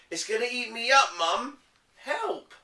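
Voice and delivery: high, fast pretend fright; hammed-up cry for help; mock panic. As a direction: gabble it like a scared child. Kipper fakes monster alarm.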